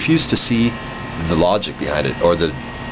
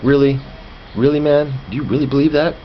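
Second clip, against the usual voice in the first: incredulous; 8 semitones higher than usual. Retold or imitated. Incredulous retort to creationist friend.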